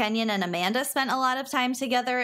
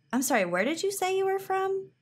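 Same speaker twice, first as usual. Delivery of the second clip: quoted stranger; 11 semitones higher, faster than usual. Retold or imitated. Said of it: "he was like".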